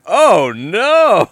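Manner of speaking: high, loud mock-worried oh no; concerned. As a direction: play the friend's sudden concern. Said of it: "He said it all, like, concerned".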